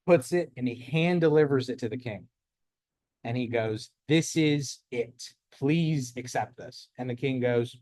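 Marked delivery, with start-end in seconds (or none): 4.1-6.9 humble squire. Acted. Squire presenting his report to the king, humble and slow. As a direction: hand it over nervously and slowly.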